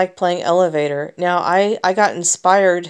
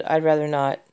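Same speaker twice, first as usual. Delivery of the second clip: softer, gentle and polite no; calm, soft refusal; 5 semitones lower, 5 dB quieter than usual. Retold or imitated. Turning down a man at the park, calm and soft. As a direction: decline him kindly and quietly. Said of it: "I spoke to him in this tone of voice".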